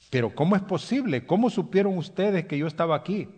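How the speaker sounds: acted-out puzzled surprise; mildly amazed questioning. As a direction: voice a baffled castaway, pitch lifted. Rescued man questions sailor in amazement.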